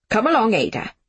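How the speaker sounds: curt, clipped command; snapped. Acted. Miss Smith snapping at Ada while dragging Jamie. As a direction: bite it off without looking back. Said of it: "she snapped".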